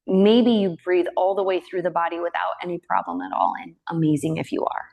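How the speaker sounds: calm, unhurried yoga teacher voice with long pauses; even, measured breath-awareness cueing; guided meditation. Real, not acted. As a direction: gently guide them into the breath. Leads breath meditation in yoga class.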